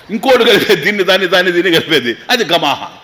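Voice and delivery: mock naming. Mocking made-up sweet names.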